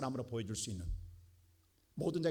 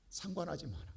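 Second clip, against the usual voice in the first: quiet command; 6 dB quieter than usual. Acted. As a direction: let 상관하지 마라 fall gently, almost to itself.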